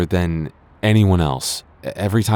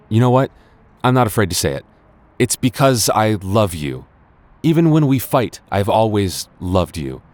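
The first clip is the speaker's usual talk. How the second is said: bold confession; 3 semitones higher, 3 dB louder than usual. Acted. Blurting out a love confession.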